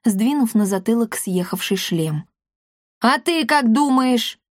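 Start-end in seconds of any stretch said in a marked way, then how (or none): 3.0-4.4 slow, higher, irritable cat voice; irritated. A narrator's reading. Cat answering the boy, irritated. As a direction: snap back like a peevish cat. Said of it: "раздражённо спросил кот".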